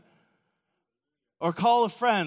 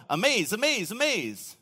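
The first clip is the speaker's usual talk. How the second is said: Rocky the alien; 3 semitones higher than usual. Retold or imitated. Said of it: "if Rocky had seen the work of God all these times, he'd go".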